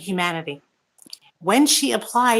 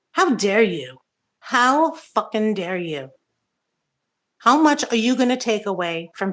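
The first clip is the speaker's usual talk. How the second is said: real anger. Real, not acted. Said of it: "I'm really pissed right now".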